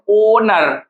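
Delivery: ओनर slowly, first syllable drawn out; stress demonstration. Shown as a demonstration. Teacher showing where stress falls, ओनर slow with long first syllable. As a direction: stretch the opening of ओनर. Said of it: "stress किस पे लग रहा".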